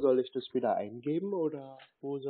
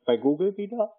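1 mock surprise; 7 semitones higher, 6 dB louder than usual. Feigned confusion when told to go back.

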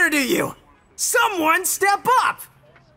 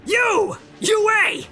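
higher-pitched shout to single someone out; calling out; 5 semitones higher than usual. Acted. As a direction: call out the student sharply. Calling out the volunteer.

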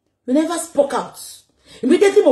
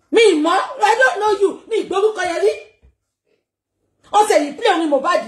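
mocking laughter; 6 semitones higher, faster than usual. Real, not acted. Mocking laugh while insulting.

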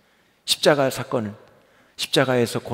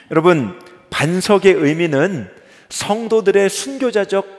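ordinary talk

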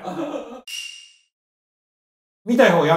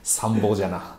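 put-on creaky wise old man; 11 semitones lower, 8 dB quieter than usual. 時代劇風の老人口調.

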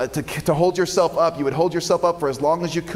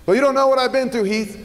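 doubtful listener; 8 semitones higher, faster than usual. Retold or imitated.

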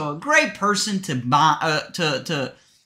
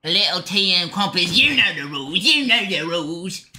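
mock British accent; 4 semitones lower than usual. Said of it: "how to speak British right now".

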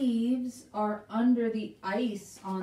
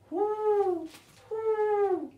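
high hooting whoo; high sing-song owl call; 11 semitones higher, 3 dB louder, much slower than usual. Shown as a demonstration. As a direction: hoot like an owl for the kids. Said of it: "Everybody whoo like an owl with me".

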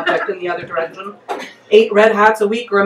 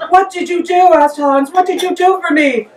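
giggling cry of alarm; laughing; 8 semitones higher than usual. Real, not acted. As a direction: ask through real laughter. Narrator laughs into Hans's cry.

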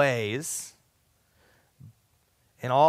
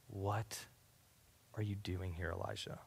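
gentle whisper; 9 semitones lower, 19 dB quieter than usual. Acted. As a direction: let each word fall as a whisper. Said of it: "the whisper just says".

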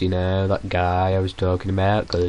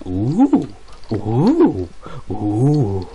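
imitated oohs; 3 dB louder, much slower than usual. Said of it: "All I can hear from downstairs is".

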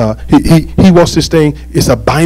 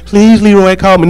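higher-pitched pleading imitation; mock begging; 5 semitones higher than usual. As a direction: beg a man to phone, hammed up. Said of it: "You can be begging Leroy".

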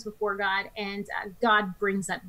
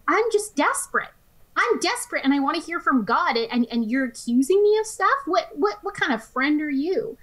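higher, pleading, retelling Job's anguish; voicing a desperate Job, raised and urgent; desperate plea; 6 semitones higher than usual. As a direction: cry it out like a man at the end of his rope.

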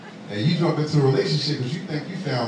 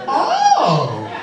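high mock-amazed squeal, dropping at the end; imitating an astonished, curious admirer; 5 semitones higher, much slower than usual. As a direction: gush in hammed-up wonder. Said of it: "so amazed and curious".

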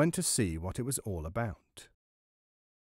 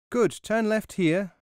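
high, loud little-mouse call; mouse shouting orders; 8 semitones higher, 5 dB louder than usual. A narrator's reading. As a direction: call directions loudly in a high voice. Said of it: "and to shout".

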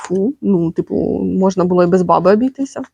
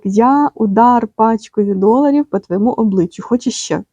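normal talking voice

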